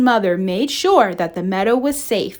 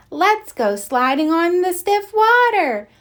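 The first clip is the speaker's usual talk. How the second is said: eager; 9 semitones higher than usual. Acted. Thumper eager to slide.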